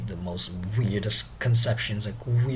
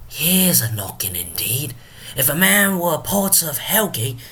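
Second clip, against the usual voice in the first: theatrical soliloquy climbing higher in pitch; Drunken Porter; 6 semitones higher than usual. Acted. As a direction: declaim like a tipsy stage gatekeeper. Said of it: "let us invite Drunken Porter himself".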